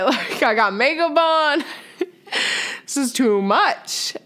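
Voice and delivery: laughing while teary; laughing through tears. Real, not acted. Bride to family at first look, laughing teary. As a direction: laugh and half-cry over the makeup. Stop making me cry.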